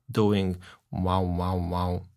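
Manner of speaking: wavering wow, wow, wow; wobbly wow imitation. Shown as a demonstration. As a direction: mimic a warbling tape wobble. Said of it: "a modulation that is literally".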